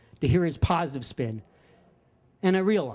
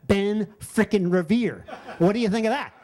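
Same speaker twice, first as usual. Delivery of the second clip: gloating; 3 semitones higher than usual. Retold or imitated. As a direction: rub it in, laughing. Friend gloating about the card.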